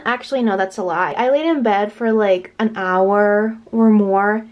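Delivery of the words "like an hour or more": ordinary talk, nothing marked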